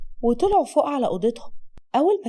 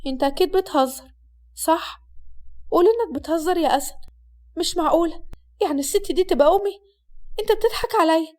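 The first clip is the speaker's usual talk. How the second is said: rising, disbelieving, pitch climbing higher; in shock; 4 semitones higher than usual. Acted. Wife learning the woman is her mother, shocked. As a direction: refuse to believe it, voice climbing. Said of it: "حسناء بصدمة".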